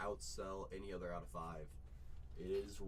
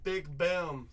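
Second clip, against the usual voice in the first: louder, higher punchy call; hype shout; 6 semitones higher, 9 dB louder than usual. Acted. Repeats the celebration.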